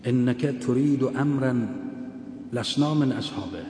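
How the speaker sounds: each Arabic word laid out slowly; slow measured quoting of the Arabic; slow Arabic recitation. Shown as a demonstration. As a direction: recite the quote deliberately, word by word. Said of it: "عین عبارت اینه".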